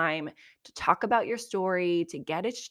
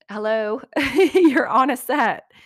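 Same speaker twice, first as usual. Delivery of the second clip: much higher and louder, laughing through it; laughing disbelief; 5 semitones higher, 8 dB louder than usual. Real, not acted. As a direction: laugh at how obvious it is. Mocking cast member's complaint.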